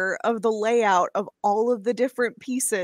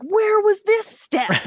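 confused; 11 semitones higher, 5 dB louder than usual. Retold or imitated. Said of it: "they'll have one thing where I'm like".

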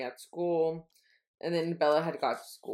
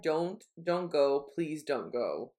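pleading; 3 semitones lower, much slower than usual. Retold or imitated. Voicing sleep-talker pleading in dream.

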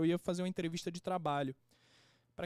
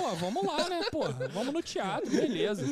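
higher, chuckling resignation; laughing along; 7 semitones higher than usual. Retold or imitated. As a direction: give in with a laugh. Laughing as he retells agreeing. (rindo, conformado)

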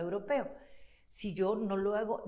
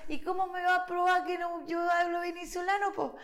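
retold protest; 9 semitones higher than usual. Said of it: "Y yo le decía".

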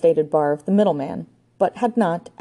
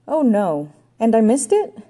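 high, louder dismay; 6 semitones higher, 4 dB louder than usual. A narrator's reading. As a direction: cry out in disappointment. Ranger dismayed at missing action.

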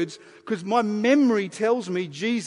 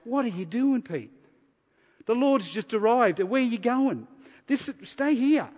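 disciples baffled; 5 semitones higher than usual. Retold or imitated. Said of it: "their hands hanging down going".

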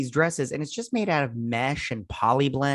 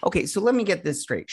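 sassy; 6 semitones higher than usual. Real, not acted. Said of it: "all sassy and brassy".

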